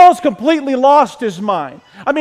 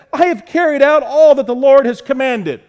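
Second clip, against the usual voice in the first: mildly hammed-up cheerful report; breezy mock-cheerful boast; cheerful claim; 4 semitones higher, 4 dB louder than usual. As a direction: announce it cheerily, lifted in pitch.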